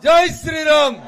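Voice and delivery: loud rally shout; shouted slogan. Real, not acted. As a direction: shout it so the whole crowd answers. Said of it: "మరి గట్టిగా చెప్పాలి కదా".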